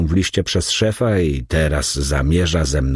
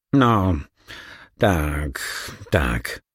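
squeaky mumble; 3 semitones lower, 3 dB quieter, much slower than usual. A narrator's reading. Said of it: "bąknął piskliwie stary".

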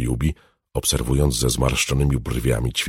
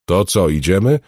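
louder, raised question, rising at the end; urging; 6 semitones higher, 6 dB louder than usual. A narrator's reading. Alchemist prods the girl to get going, urging. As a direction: hurry them along with a lifted question. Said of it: "ponaglił".

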